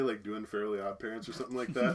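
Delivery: usual speaking voice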